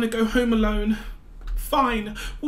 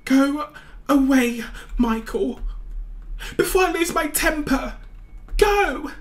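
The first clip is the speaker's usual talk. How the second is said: angry; 3 semitones higher than usual. Acted. Girl yells at Michael.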